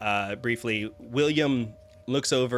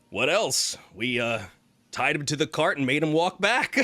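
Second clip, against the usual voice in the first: paladin's voice; 4 semitones higher, 4 dB louder than usual. Acted. Paladin tells funny story.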